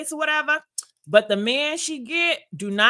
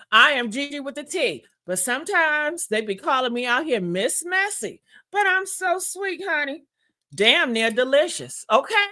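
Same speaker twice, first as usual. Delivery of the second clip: sassy slogan; 3 semitones higher than usual. Shown as a demonstration. Introducing herself to viewers with a sassy slogan. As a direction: sell your slogan with sass. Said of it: "I did it, I did it".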